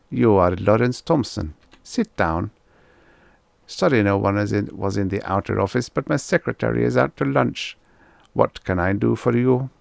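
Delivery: put-on a light German accent on the psychiatrist. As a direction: speak like a calm German doctor. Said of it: "a German accent".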